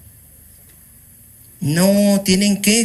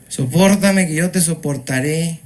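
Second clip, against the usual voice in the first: "Sopórtame" punched much louder, then "que yo te soportaré"; emphatic repeat; 4 dB louder than usual. Shown as a demonstration. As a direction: hammer the verse home. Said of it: "como dice la Biblia". (repetición enfática, "Sopórtame" más fuerte)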